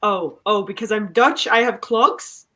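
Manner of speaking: lightly put-on Dutch accent. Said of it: "it's a Dutch accent".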